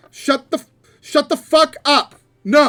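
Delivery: high, loud shout with FUCK hit hard; disbelieving shout. Real, not acted. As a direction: yell it at the dice in disbelief. DM reacts to dice roll.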